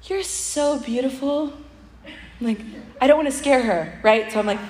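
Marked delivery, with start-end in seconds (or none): 0.0-1.5 gentle compliment. Retold or imitated. Telling old lady she's beautiful.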